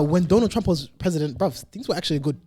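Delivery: booming metallic robot voice; fast talk through a robot voice filter. Real, not acted. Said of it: "just in a robot voice".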